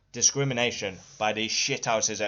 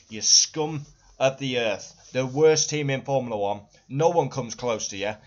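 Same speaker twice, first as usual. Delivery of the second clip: angry outburst; 3 dB louder than usual. Real, not acted. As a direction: hurl the insult at the team. Furious rant at Red Bull.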